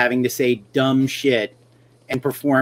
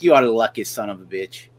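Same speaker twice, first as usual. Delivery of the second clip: put-on Russian accent; 3 semitones lower than usual. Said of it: "he was Russian".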